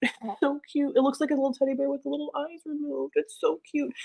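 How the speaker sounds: high, soft cute-gush; squeaky adoring gush. Real, not acted. Gushing over blind cat.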